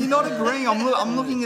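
high, loud laughing protest; cracking up while objecting. Real, not acted.

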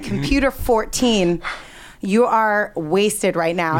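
slow, deliberate reprimand; measured, official scolding; stern supervisor. Retold or imitated. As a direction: announce it like a disapproving monitor, word by word. Patched-in supervisor quoted in her story.

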